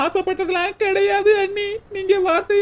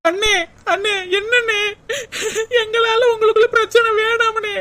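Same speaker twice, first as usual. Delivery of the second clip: crying plea; 4 semitones higher than usual. Acted. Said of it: "உன் நடிப்பு எல்லாம் எனக்கு தெரியும்டி".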